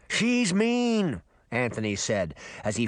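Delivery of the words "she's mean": high, emphatic fish character; pitched-up, worked-up fish voice; insistent fish. Acted. Fish insists mermaid is mean.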